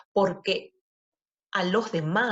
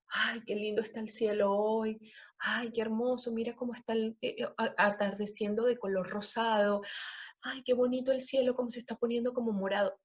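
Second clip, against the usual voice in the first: delighted gushing; 3 semitones higher, 4 dB quieter than usual. Shown as a demonstration. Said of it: "yo soy muy de que".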